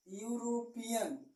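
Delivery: यूरोपियन said slowly, starting yu; slow demo word. Shown as a demonstration. Teacher gives another example word. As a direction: draw out यूरोपियन clearly. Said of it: "इसका उच्चारण करेंगे".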